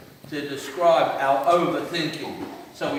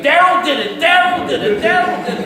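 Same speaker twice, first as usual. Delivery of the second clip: loud, high mock-crazed chant; imitating someone ranting to himself; 11 semitones higher, 9 dB louder than usual. Comic acting out a man headbutting walls, mock-crazed chant. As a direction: chant it high like a hammed-up madman. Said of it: "headbutting a wall going".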